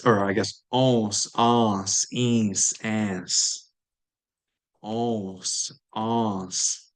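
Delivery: "ons" nasal vowel, no N, clear S; nasalize, skip the N, hit the S; nasal vowel plus s. Shown as a demonstration. Teacher drilling nasal vowels ending in S. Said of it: "You're not saying the N still, but you are going to pronounce the S".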